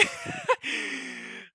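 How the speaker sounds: very high airy squeal of laughter. Real, not acted. Streamer squealing with laughter at the chart, very high airy squeal. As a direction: squeal with glee.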